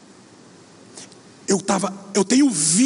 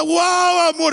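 thrilled cry; 8 semitones higher, 3 dB louder, much slower than usual. Retold or imitated. Wife thrilled after jump.

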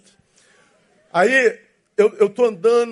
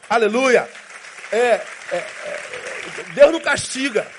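normal talking voice

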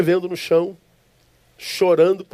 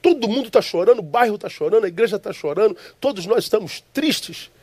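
raised, indignant pitch, confronting the stranger; retold anger; 3 semitones higher than usual. Preacher retelling his dream, confronting the smiling stranger, indignantly. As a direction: protest higher, as if offended at his smile. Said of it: "E eu me levanto com raiva dele".

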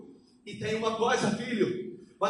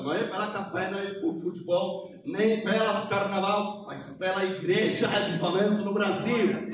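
Polish accent Portuguese; 2 semitones lower than usual. Real, not acted. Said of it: "desculpa meu português".

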